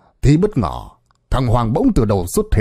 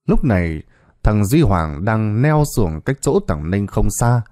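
ordinary delivery

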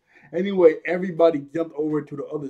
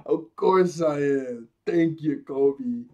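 vain villainess; 4 dB louder, slower than usual. Retold or imitated. Acts vain captain accepting flattery.

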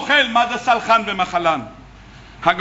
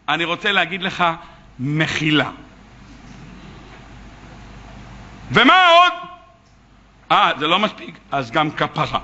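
a hint of a meek, low-voiced debtor pleading; lightly voiced poor worker, lower and resigned; mildly hangdog debtor explaining he has nothing; 7 semitones lower than usual. Debtor answers boss meekly.

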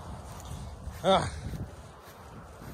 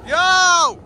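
a cracking, rough morning-voice yell; hoarse morning voice; 13 semitones higher, 8 dB louder than usual. Real, not acted. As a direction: yell out with a raspy, just-woke-up voice. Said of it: "That's my goddamn morning voice".

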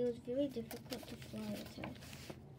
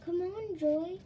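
urgent; 7 semitones higher, 7 dB louder, slower than usual. Acted. Kirsty urging Joy.

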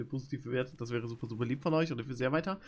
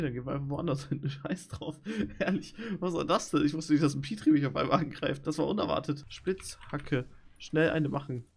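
normal talking voice

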